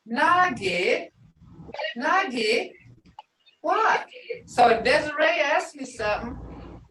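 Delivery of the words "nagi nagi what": Nagi, Nagi, what? rising each time; questioning tone. Shown as a demonstration. Teacher showing how to answer a question. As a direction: lift every Nagi like a question. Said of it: "But if I say".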